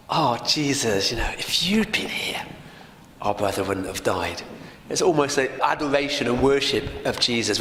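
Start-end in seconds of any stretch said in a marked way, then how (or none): 0.1-4.4 Mary pleading at Jesus' feet, close to tears; tearful plea. A narrator's reading. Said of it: "And then she burst into tears".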